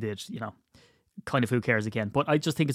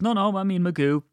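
insistent correction; 7 semitones higher than usual. Retold or imitated. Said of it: "And he says".

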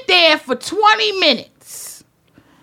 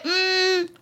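emphatic order; 3 semitones higher, much slower than usual. Retold or imitated. Ordering at the restaurant.

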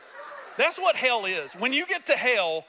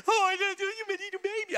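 put-on baby talk; 11 semitones higher than usual. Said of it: "I'm like".

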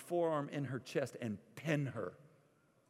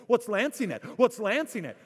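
put-on higher, louder child's repeated question; worried child; 10 semitones higher, 9 dB louder than usual. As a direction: play the anxious kid in the back seat. Daughter asks about lancing.

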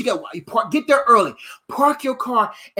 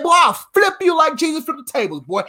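retold crazy threat; 5 semitones higher than usual. Preacher retells threatening the man at the gym, worked-up shout. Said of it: "boy, I went crazy".

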